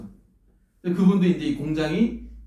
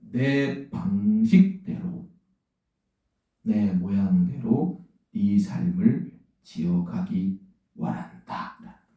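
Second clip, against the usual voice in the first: solemn divine voice; 5 semitones lower, much slower than usual. Retold or imitated. God tells the preacher his will, slow and solemn. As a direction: draw out each phrase as God's word, sinking to a hush. Voicing God's closing message, drawn out.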